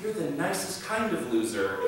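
lightly mock-gentle preacher; gentle pastor. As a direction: say it sweetly as a kind put-down. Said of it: "I go".

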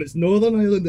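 retold rising irritation, not shouted; getting angry. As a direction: correct them with mounting annoyance. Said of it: "he was fucking getting angry at me".

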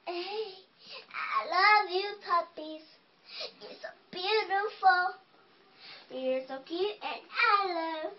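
soft, hushed, loving princess; quiet loving princess. Acted. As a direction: coo softly to the puppies. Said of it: "talks really quiet princess".

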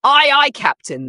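high, loud cheerful shout. Acted. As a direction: shout it out like eager sailors. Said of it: "they shouted in unison".

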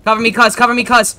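cover me shout. Real, not acted. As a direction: call out for cover. Calling teammate for cover.

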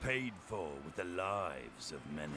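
cold, measured villain; calm menacing boss speech; villain monologue. Acted. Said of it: "Here comes the evil monologue".

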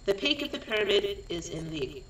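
deliberate, projected scene reading; script narration. A narrator's reading. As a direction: read out stage directions in short phrases with pauses.

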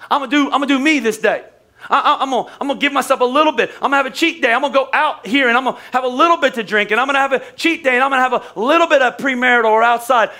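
lightly voiced churchgoer talking himself into a cheat day; preacher mimics a Christian excusing his cheat day; mock churchgoer.

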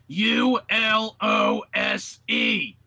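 slow shouted spelling. Real, not acted. Reading out the letters.

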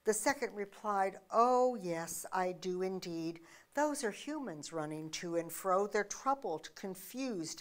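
reads the short poem gently, like a parable; poem reading. Acted.

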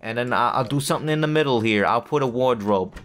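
put-on New Jersey accent. Gamer placing haircut furniture, in a mock Jersey accent. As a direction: lightly play up a Jersey accent. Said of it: "I'm speaking in a Jersey accent".

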